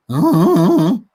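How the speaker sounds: mock creepy sing-song; alien voice. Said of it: "the most blood-curdling sound from an alien".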